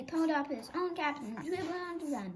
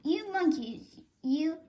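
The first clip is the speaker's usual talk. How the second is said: scolding; 3 semitones higher, 5 dB louder, slower than usual. Acted. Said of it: "he said, shaking his finger".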